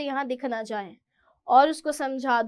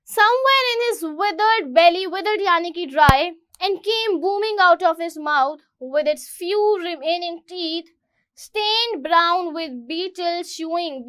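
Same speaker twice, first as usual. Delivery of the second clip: reading the English slowly and clearly; slow story reading; 4 dB louder, much slower than usual. Acted. Teacher reading the story to students, slow. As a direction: read it out for the class.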